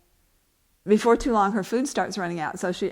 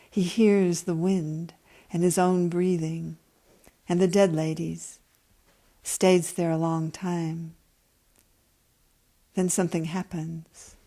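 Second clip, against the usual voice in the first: calm, even reading of a story; story narration. A narrator's reading. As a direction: read it like an author at a reading. Reads her story aloud.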